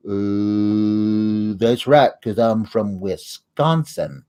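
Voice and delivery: low, slow mock Sling Blade grunt; hint of a slow backwoods mumble. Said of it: "doing Billy Bob Thornton and Sling Blade".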